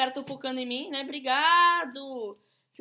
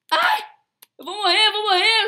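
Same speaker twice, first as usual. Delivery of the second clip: high, loud panicked singsong; 7 semitones higher, 9 dB louder than usual. Real, not acted. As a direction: sing out your doom in panic. Quase morrendo no jogo. (cantarolando em pânico)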